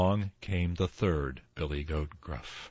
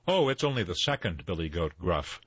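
medium goat voice; faster than usual. Acted. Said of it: "did not have such a small voice".

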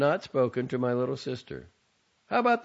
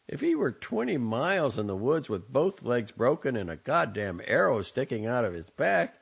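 louder, scornful tirade; exasperated son; 6 semitones higher, 4 dB louder than usual. A narrator's reading. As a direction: scold her with scornful exasperation. Son berates mother.

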